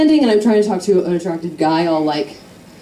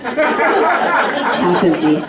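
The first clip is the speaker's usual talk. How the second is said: slow, drawn-out somber half empty; mock somber; 3 semitones higher, much slower than usual. Shown as a demonstration. Comedian dramatizing the half empty glass, slow. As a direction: say it slow like a sad omen. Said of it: "it's half empty because it's somber".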